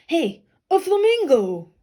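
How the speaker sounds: high, loud, slow exclamation; excited flamingo. Acted. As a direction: cry it out with delight. New character exclaims.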